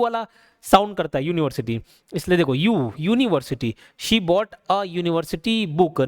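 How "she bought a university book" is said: university said with a Y sound, slowly; slow model sentence. Shown as a demonstration. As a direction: read it out slowly as the correct form. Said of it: "ना कि एन यूनिवर्सिटी book". (धीमे से बोला गया सही वाक्य)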